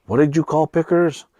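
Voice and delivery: high-pitched retold question; acted questioning. Retelling how they asked the sister, high questioning voice. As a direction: imitate asking a small child. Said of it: "we're like".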